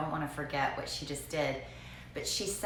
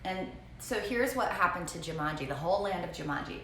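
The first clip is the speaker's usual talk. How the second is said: normal talking voice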